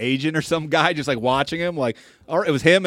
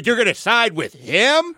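higher, slow, mock-indignant question; upset; 5 semitones higher than usual. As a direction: draw out the accusation, imitating his upset. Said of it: "He was upset".

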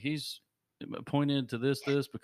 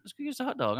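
quoting Bubba; 11 semitones higher, much faster than usual. Retold or imitated. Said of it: "He's like".

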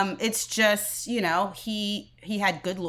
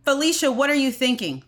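mildly indignant read-out, pitched higher; exclaimed disbelief; 4 semitones higher than usual. Retold or imitated. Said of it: "Followed by three exclamation points".

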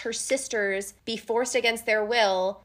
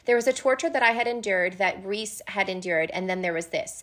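reading the quote; 2 semitones lower than usual. Acted. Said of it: "as Feyre has this line".

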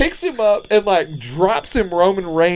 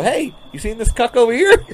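mocking call-out; 6 semitones higher than usual. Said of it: "walk up in front of everybody and go".

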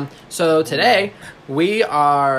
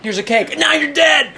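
mock sweet then sinister; 13 semitones higher, 3 dB louder than usual. Acting murder at graduation party.

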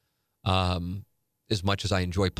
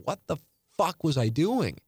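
higher-pitched, incredulous self-reproach; exasperated with self; 8 semitones higher than usual. Retold or imitated. Looking back on his own lifting, exasperated. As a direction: ask it of yourself, pitched up in disbelief. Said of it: "I'm so mad at myself".

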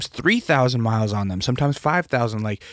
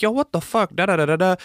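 high-pitched mock rant at the dealership; retold angry complaint; 7 semitones higher than usual. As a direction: pitch it up like you're about to cuss them out. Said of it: "I'm like".

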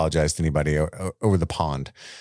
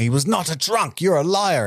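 mock outburst; 9 semitones higher than usual. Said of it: "he blows up on her".

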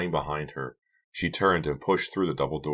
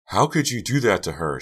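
high, loud appalled question; shocked reproach; 6 semitones higher, 5 dB louder than usual. A narrator's reading. Pretty confronts Karina, shocked reproach. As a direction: ask it aghast, pitch up. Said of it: "Pretty gasped".

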